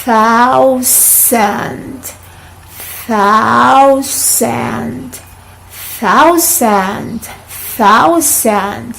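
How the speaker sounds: "thousand" drawn out with a soft TH each time; soft th drill. Shown as a demonstration. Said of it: "Repeat, please".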